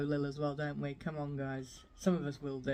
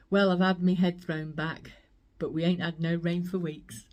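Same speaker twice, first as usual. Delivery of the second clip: lightly voiced poem recital; reciting Pam Ayres poem; 5 dB louder than usual. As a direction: recite the dolly poem, louder, a hint of West Country. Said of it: "I just loved the way that she says".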